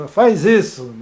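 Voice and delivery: ordem seca e rude; rude order. Shown as a demonstration. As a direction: mande sem rodeios, ríspido. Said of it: "Se eu falar rude". (ordem ríspida e seca)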